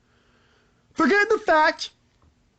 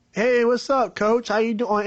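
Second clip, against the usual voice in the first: Jon Gruden impression; 3 semitones lower than usual. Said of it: "impression of Frank Caliendo".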